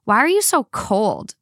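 slow, playful whine; whiny. Retold or imitated. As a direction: whine it like a sulking kid. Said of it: "in a whiny voice".

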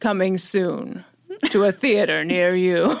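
slow deep trailer announcer; slow dramatic movie trailer read. Retold or imitated. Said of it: "it's always a man's voice".

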